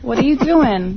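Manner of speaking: put-on slow Jersey girl accent; drawn-out New Jersey accent. Shown as a demonstration. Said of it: "Do the accent".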